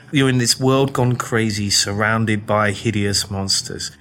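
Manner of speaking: nervous English bloke memorising his pitch on the street, slow mutter; muttered rehearsal. Retold or imitated. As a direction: rehearse it under your breath, slowly. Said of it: "reading from this script ... going".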